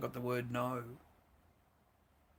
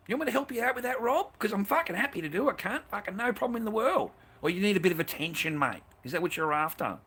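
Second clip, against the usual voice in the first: taunting, rising higher and faster; mock threat; 4 semitones higher, 4 dB louder than usual. Telling off Rob in chat, a cocky mock threat. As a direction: needle him with a cocky menace.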